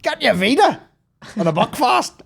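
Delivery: high, loud crowd patter; mock tour greeting. Comic welcoming Bondi crowd with gifts, high mock holler. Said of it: "if I ever do an Australian tour".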